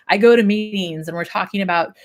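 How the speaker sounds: talking through hiccups; interrupted by hiccups. Real, not acted. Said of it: "I'm hiccuping so bad".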